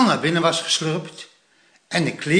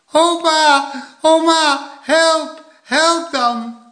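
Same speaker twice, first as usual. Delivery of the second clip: high, urgent shouting; loud cry for help; 12 semitones higher, 6 dB louder, much slower than usual. A narrator's reading. Plop under the snow calling grandparents, loud cry for help. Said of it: "riep Plop hard".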